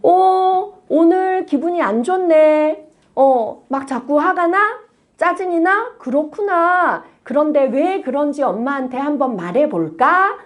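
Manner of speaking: put-on a calm parent asking her child; calm observing parent. Shown as a demonstration. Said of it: "이렇게 말해보는 거예요. 관찰자의 눈빛으로".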